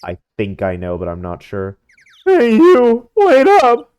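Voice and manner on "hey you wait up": high, very loud yell. Acted. Man yelling after two people to stop, yelling. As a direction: call out to someone far ahead. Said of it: "You think he's yelling at us?".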